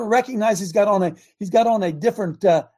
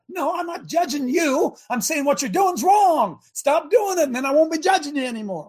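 forceful reply; 8 semitones higher than usual. Acted. Preacher answering the objector.

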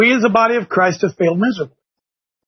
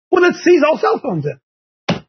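slow, drawn-out sarcastic proposal, pitched higher; sarcastic suggestion; 7 semitones higher, slower than usual. Acted. Host mocking a ban on phones, slow and sarcastic. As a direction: spell out the absurd fix slowly, mocking it.

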